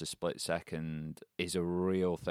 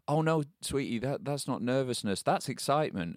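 higher-pitched mum voice, retold; reassuring mum; 7 semitones higher than usual. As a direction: gently correct a child like a mother. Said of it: "And she's like".

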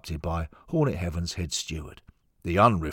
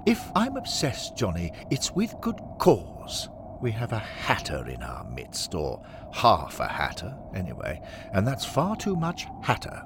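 indignant club father; 2 semitones higher than usual. Acted. Henry defends his rivalry to Johnny, mildly indignant. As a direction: insist your grudge is justified.

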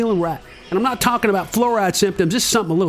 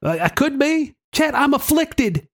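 talking out of the side of the mouth; out of mouth corner. Acted. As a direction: speak through the corner of the lips. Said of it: "talking out of the side of your mouth".

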